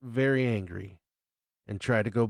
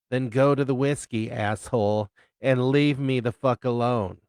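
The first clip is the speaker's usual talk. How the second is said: louder, snapping brush-off; angry bartender, louder; 2 semitones higher, 4 dB louder than usual. Acted. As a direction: tell him to get lost, sharp and loud. Bartender telling him off.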